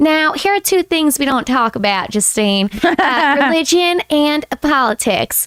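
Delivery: clumsy, rough, bad Southern drawl. Retelling what a camp counselor told Justine when pulling her aside: bad Southern accent. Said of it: "I I'm so bad at Southern accents".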